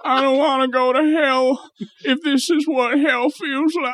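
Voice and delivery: high, slow hammed-up preacher voice; mock preacher. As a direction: squeal it like a mocking preacher. Mocking the preacher's quote.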